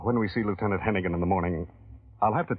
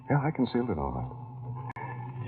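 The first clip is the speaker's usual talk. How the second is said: slow, soft and wry; bitter; 2 semitones higher, 5 dB quieter, much slower than usual. Acted. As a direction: let the bitterness out quietly.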